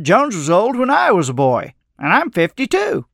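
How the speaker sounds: lightly voiced local man making his point; marina manager. A narrator's reading. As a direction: rise high on his own age. Marina manager quoted, amazed.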